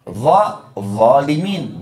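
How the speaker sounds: slow "Dha, zalimin" with an emphatic dha; Arabic dha. Shown as a demonstration. Teacher to congregation, showing dha slowly. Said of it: "beda pengucapannya".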